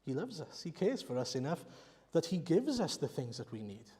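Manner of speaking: usual speaking voice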